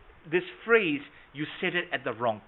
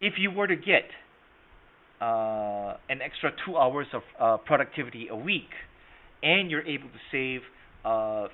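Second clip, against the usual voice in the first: demo loaded question. Shown as a demonstration. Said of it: "This is how you load the question".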